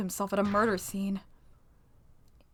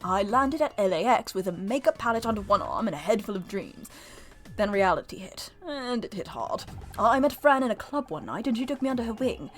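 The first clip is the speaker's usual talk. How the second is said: put-on British accent. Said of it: "he's British".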